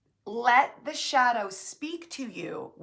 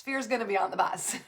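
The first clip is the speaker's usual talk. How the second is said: laughing; faster than usual. Real, not acted. Laughs at her own point.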